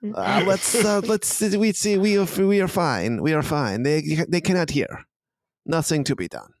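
high, fussy character voice; high voice hushing the others; placating inner voice. Acted. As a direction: plead in a high put-on voice. Second inner voice answers the threat.

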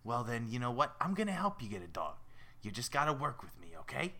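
deal-making fish with a New York rasp; raspy New Yorker. Acted. Fish offering to help get a dog, raspy New York voice. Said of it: "They all sound like raspy New Yorkers".

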